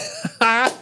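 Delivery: high, put-on grinning laugh; hammed-up nervous grin sound; forced smile noise. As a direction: imitate a fake smiling laugh. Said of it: "I was smiling, like".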